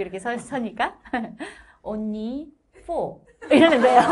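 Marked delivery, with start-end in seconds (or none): 1.8-3.2 put-on teacher reading out a score in Gyeongsang-accented English; mock old teacher saying one, four with a Gyeongsang accent; old teacher calls out a grade in Gyeongsang English. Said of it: "그 경상도 사투리 영어 알죠?".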